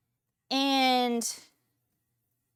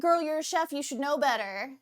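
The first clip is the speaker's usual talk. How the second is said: sassy scolding; 3 semitones higher than usual. Retold or imitated. Chef scolding her friend over the menu, sassy scolding.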